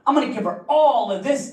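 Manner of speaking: squeaky hyped-up boasting guy; quoting a hyped-up guy in a high squeal; high mock dude voice. Dude leans forward, boasts.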